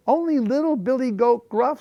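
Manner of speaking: high, piping tiny goat; small little goat voice. A narrator's reading. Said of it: "in his small, small voice".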